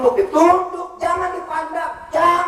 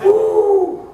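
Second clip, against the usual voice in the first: startled exclamation; 13 semitones higher, 6 dB louder than usual. Real, not acted. Reacting to nagging wife talk.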